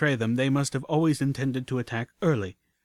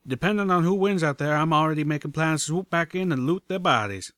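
eager, higher-pitched character voice; cheerfully scheming, pitched up; grinning relish; 5 semitones higher, 4 dB louder than usual. Acted. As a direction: say it through a grin. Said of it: "He grinned to Velvet".

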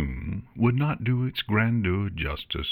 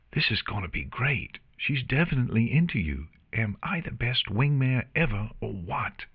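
gleeful conspirator; 5 semitones higher than usual. Acted. Artemis gloats privately to Luna.

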